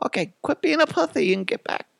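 falsetto mother turning rude; very high, hammed-up mom; joke crude mom. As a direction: scold in squeaky mock-mom voice. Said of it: "and my mom's like".

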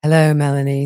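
low, creepy monotone Chad impression; low creepy monotone like Hannibal Lecter. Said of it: "do her Chad voice".

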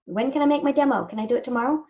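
eager newbie voice. Retold or imitated. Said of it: "people who waltz in and think".

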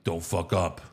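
low, soft menacing hush; hushed warning. Retold or imitated. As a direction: lean in and hiss it quietly. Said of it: "he's like".

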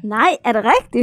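loud, rising disbelief; astonished question. Real, not acted. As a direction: blurt it out in real surprise. Astonished at what the room is.

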